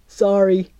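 usual speaking voice

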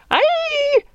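piercing, very high yelp; high scream of pain. A narrator's reading. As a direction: shriek as if your ear is hooked. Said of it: "The man's scream".

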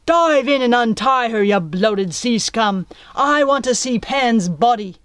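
loud angry pirate captain; shouting commands. A narrator's reading. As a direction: bark orders across the water. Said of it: "shouted commands".

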